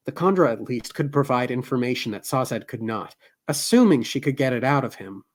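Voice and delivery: measured novel reading voice; story narration. A narrator's reading. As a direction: read it like an audiobook. Reads novel aloud.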